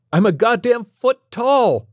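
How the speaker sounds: high, loud, slow furious yell. A narrator's reading. Tiny Stephen yells into the phone at the doctor. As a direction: bellow it into the phone. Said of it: "Stephen yelled into the bottom of the phone".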